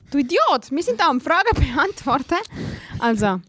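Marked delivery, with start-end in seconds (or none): 0.1-2.3 mock scolding. Real, not acted. Mock scolding of a derailed co-host.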